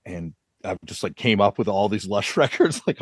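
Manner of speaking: ordinary talk, nothing marked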